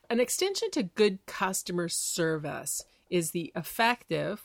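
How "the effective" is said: effective leaned on a bit; stress on effective. Shown as a demonstration. Host stressing a key word to listeners, light stress. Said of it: "with emphasis on the word effective".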